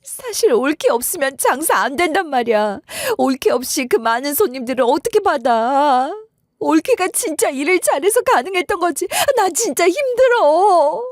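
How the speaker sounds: sister-in-law clinging and pleading, hammed up; desperate pleading. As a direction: beg her not to leave, desperately. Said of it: "절박한 목소리로 매달리면서".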